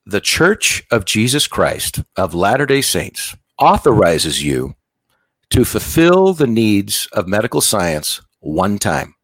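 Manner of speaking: slow, weighty official proclamation; formal dictation. Retold or imitated. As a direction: dictate it solemnly, phrase by phrase. President dictating authorization word for word.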